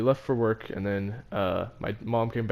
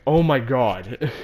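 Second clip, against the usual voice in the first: loud, drawn-out "oh my God"; mom freaking out; 6 dB louder, much slower than usual. Retold or imitated. Mom reacts to the broken exit sign, freaked out.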